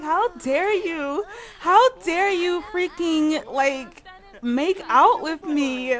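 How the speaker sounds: hammed-up indignation; mock attitude. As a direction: snap back with attitude. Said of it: "give her some attitude".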